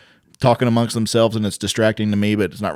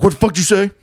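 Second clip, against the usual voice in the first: high-pitched mock outburst at a heckler; confrontational comic; 10 semitones higher, 4 dB louder, faster than usual. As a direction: jump on them, imitating a touchy comic. Imitates comic confronting whispering audience.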